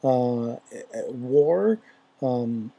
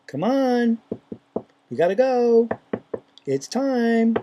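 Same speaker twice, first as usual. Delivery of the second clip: raised, urgent calling out; 8 semitones higher, 3 dB louder, slower than usual. Retold or imitated. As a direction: call them to hurry, loud and high. Inner urging, called out.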